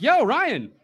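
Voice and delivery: put-on high, loud drunken hail across the line; drunk shout-out. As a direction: call out to him like you're drunk at a gig. Drunk greeting at concert.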